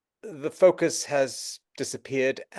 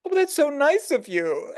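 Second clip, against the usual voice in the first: retold cabbie; 12 semitones higher than usual. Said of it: "And he was like".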